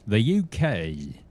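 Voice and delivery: mock British accent. Playful accent attempt at UK.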